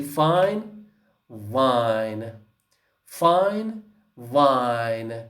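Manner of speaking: fine and wine, F against V; minimal pair demo. Shown as a demonstration. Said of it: "the next examples below".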